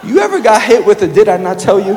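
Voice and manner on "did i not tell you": parent scolding. Retold or imitated. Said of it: "That's how a parent talks to a child".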